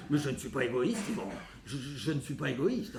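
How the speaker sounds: low, soft, halting self-defence; meek denial. Acted. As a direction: shrink back and deny it quietly. Son meekly denies being selfish.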